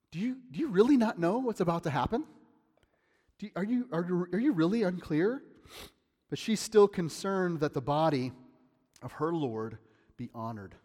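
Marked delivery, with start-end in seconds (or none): 0.1-5.4 higher, quick, wondering "Do you really not know?"; gently amazed she hasn't grasped it; incredulous angels. Retold or imitated. Angels to Mary, mildly incredulous. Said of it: "It's like they're saying to her".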